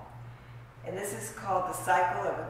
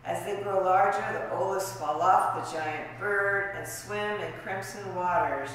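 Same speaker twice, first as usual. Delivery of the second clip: measured literary recital of a fairy tale; poetic tale reading. Acted. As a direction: recite each image deliberately, pausing between phrases. Reads own fairy tale poem.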